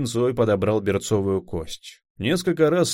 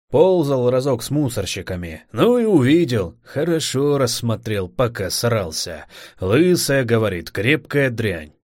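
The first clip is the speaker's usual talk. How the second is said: put-on eager young recruit. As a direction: rattle off the rumour eagerly. Newcomer voiced telling legend.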